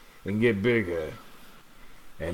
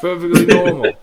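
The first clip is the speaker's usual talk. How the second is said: put-on louder Long Island accent, insisting; 5 semitones higher, 8 dB louder than usual. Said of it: "Long Island accent".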